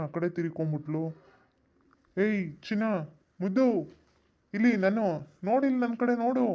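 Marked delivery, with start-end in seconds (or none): 2.2-6.5 high, sing-song calls to get her attention; flirty call. Acted. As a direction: call out to her, pitched up and teasing.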